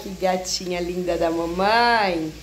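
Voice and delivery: sweet mommy voice. Real, not acted. Mother cooing at little daughter.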